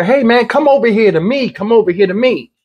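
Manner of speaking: lightly voiced trooper calling out; retold trooper call. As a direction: imitate a trooper calling the man over. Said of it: "did you hear the one state trooper".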